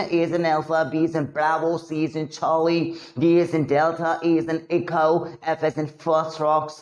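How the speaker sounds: each letter word said slowly and distinctly; phonetic alphabet drill. Shown as a demonstration. Teacher drilling students on the phonetic alphabet, slowly. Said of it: "words को correct बोलोगे ना".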